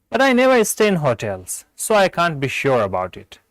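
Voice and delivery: slow, measured dialogue reading; textbook read-aloud. Acted. Teacher reads a hotel-price dialogue to learners, measured read-aloud. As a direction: read the exercise slowly, without acting the parts.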